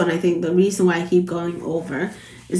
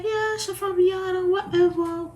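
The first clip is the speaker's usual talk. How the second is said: higher Jamaican patois voice; Jamaican accent; 10 semitones higher, 4 dB quieter than usual. Retold or imitated. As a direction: mimic the locals in Jamaican patois. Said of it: "Yeah, everybody's like".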